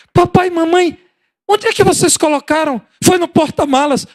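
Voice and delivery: put-on very high delighted kid's voice; excited child. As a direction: squeal it like a thrilled child. Excited child finding the gift. (criança empolgada, voz bem aguda)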